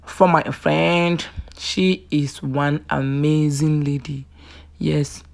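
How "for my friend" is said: whisper. Real, not acted. Overcome with joy for friend.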